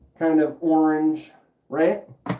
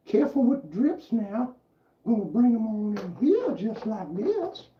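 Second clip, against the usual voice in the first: put-on Cajun accent; 6 semitones higher than usual. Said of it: "This is kinda like a Cajun accent".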